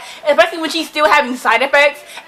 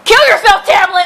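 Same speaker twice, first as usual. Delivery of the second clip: higher, louder mock outburst; 6 semitones higher, 3 dB louder than usual. Real, not acted. Yelling at Tamlin over the book, mock outraged. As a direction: fling it at the character in fake rage.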